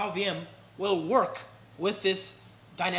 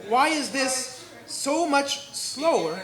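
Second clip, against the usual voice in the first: slow, louder, drawn-out disbelief; mock exasperation; 3 semitones higher, 5 dB louder, much slower than usual. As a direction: stretch it out in loud, higher mock dismay. Mock outrage at slow benchmark.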